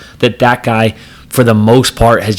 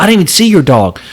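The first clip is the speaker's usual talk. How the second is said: mocking the driver; 7 semitones higher than usual. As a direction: mimic the guy's defensive whine. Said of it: "He's like".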